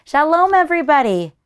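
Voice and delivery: high, loud delighted welcome; joyful greeting. Acted. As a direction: greet friends with open arms. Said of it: "Baba Brina cried".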